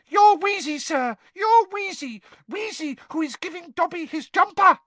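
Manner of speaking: high, squeaky house elf. Acted. Dobby speaking.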